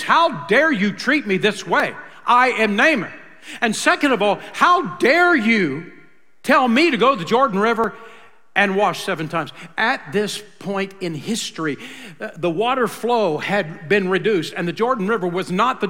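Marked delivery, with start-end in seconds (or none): 0.0-9.5 louder, affronted shout of pride; hammed-up wounded pride, raising the voice; indignant Naaman. Naaman berating the prophet's messenger, indignant and loud. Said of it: "He's incensed".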